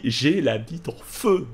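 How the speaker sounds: normal talking voice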